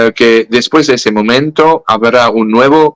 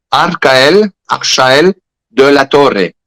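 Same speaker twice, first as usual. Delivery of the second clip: mock French pronunciation of Arcael; French accent; 3 semitones higher, much slower than usual. The seer insisting on the name to Saint Michael, French accent. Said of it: "en francés".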